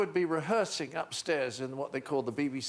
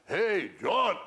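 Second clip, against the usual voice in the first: called out; 4 semitones higher, 4 dB louder than usual. Retold or imitated. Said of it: "I suddenly heard".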